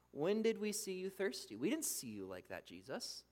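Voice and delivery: soft, dropping, puzzled protest; quietly baffled disciple; bewildered. Acted. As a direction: trail off in confusion. The righteous puzzled by Jesus.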